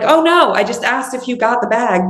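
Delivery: mild flustered protest. Retold or imitated. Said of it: "I'm like".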